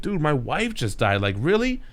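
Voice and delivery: a widower's can't-believe-it snap that builds up; exasperated disbelief. Retold or imitated. Peter to Jameson after his wife dies, exasperated. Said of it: "And Peter's like".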